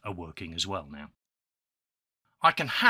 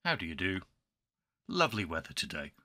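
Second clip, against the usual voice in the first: posh English gent; 4 dB quieter, faster than usual. Pretend. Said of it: "perpetuating the myth that us English people".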